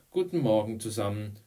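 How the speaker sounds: high, brisk teacher's call; called-out greeting. A narrator's reading. Teacher greeting her sixth-grade class, calling out. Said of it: "rief Misses Andrew".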